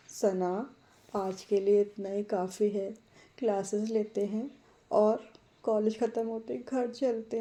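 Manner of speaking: a touch of irritation in her pleading; mildly fed up with her friend; slightly irritated. Acted. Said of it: "थोड़ी सी irritate होकर". (हल्की सी चिढ़ के साथ)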